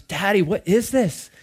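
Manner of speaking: puzzled little boy, lightly put on; imitated young son. Son questioning dad about the casserole, lightly imitated child. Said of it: "Josh was, like, eating ... and he goes".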